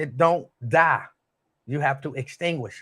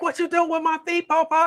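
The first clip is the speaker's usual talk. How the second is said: put-on much higher little-girl voice, puzzled question; imitating a four-year-old girl. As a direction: squeak it out like his small granddaughter. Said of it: "And she was like".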